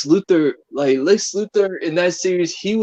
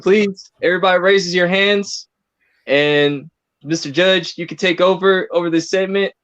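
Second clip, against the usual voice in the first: mock court announcer.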